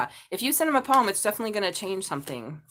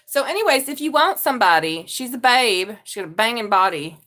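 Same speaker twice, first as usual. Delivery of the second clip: louder eager matchmaking; excited pitch; 9 dB louder than usual. Real, not acted. A tarot reader sells her friend again, loud and eager. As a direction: push the sale with gusto.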